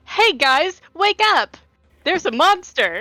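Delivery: mock Brooks yelling the party awake; imitating Brooks. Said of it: "Brooks doing something like".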